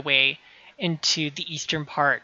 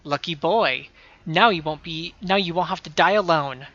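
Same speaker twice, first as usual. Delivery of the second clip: gloating villain; 3 dB louder than usual. Acted. Voicing a gloating villain NPC.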